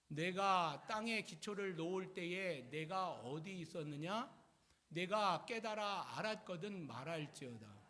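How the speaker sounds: measured, emphatic congregational recitation; scripture reading. Acted. Leading the congregation through Job chapter thirty-eight, solemn recitation. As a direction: read it out slowly and firmly for all to follow.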